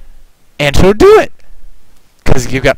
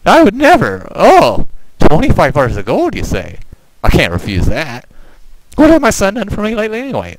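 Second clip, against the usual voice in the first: higher-pitched mock indignation giving way to acceptance; lightly acted bribed mother; 6 semitones higher than usual. Game mother answers a bribe, lightly acted, higher-pitched. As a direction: lightly voice a mother swayed by gold. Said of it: "And she says".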